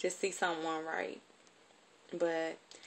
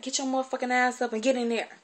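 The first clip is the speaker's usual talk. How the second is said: high, loud furious command, imitating her aunt; furious shout; 6 semitones higher, 5 dB louder, faster than usual. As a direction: yank the kid up and yell. Auntie yanking her up.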